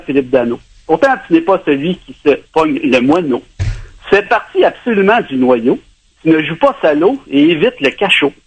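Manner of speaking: homemade mini poem read aloud; poem recital. Shown as a demonstration. Caller reciting a tribute poem to Philippe Danault, lightly recited. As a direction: recite rhymed lines to the player. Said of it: "Ça m'a inspiré, inspiré un mini poème".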